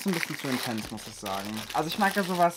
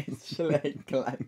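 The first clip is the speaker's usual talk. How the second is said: slow, laughing repeat; laughing echo; much slower than usual. Pretend. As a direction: echo the threat while laughing. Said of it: "repeats the joke threat, laughing".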